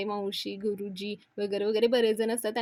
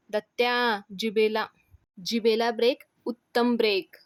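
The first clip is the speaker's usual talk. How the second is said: raised, emphatic rebuke in short bursts; shouted warning; 4 dB louder than usual. Acted. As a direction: order someone to hold their tongue. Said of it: "अण्णा ओरडतात आणि म्हणतात". (ओरडून दम देत)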